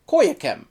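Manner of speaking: Koyakem, ending in -kem; book's spelling. Shown as a demonstration. Reviewer reads out the book's spelling, ending -kem. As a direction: say Koyakem with a final -em. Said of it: "spells the group as".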